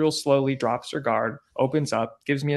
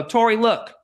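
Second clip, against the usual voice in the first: retold appeal; 7 semitones higher, 4 dB louder than usual. Calling to her, pleading for a shot.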